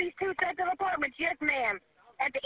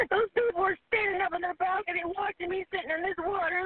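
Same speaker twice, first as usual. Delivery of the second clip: crying; 3 semitones higher than usual. Real, not acted. Trapped caller crying in flood.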